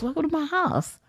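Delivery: high, soft whispered greeting; whispered welcome. Retold or imitated. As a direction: greet her in a dazed whisper.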